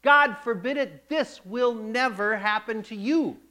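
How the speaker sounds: yelling rebuke. Retold or imitated. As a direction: shout it at him, refusing. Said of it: "He yells at him".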